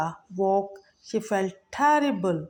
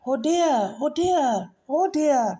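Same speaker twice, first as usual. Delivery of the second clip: high, louder frightened squeals; desperate cry; 6 semitones higher, 3 dB louder than usual. A narrator's reading. Desperate mouse cries out to the lioness. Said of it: "cried Mouse".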